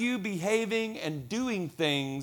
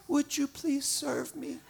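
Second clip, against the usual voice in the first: high, slow, small pleading voice; mock tearful kid begging; pitiful child; 11 semitones higher, slower than usual. Shivering kid alone at camp begging, mock pitiful. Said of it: "shivering, tear coming down the cheek".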